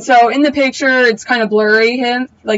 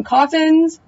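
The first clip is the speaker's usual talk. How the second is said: disbelieving question, pitched higher; incredulous; 5 semitones higher than usual. Real, not acted. Complaining to viewers about the coffins, incredulous. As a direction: scoff at it like a tired cliche.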